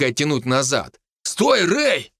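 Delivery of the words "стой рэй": high, alarmed call to stop; high-pitched warning; urgent warning cry. Acted. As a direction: call out sharply to halt a friend. Companion pulls narrator back from abyss.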